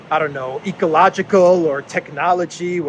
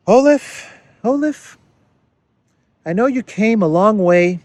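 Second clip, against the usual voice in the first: mock Trudeau. Trudeau breaks bad news skit.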